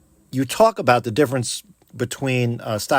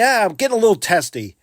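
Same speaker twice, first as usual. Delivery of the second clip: mock annoyance; 8 semitones higher, 3 dB louder, faster than usual. Shown as a demonstration. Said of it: "you could say".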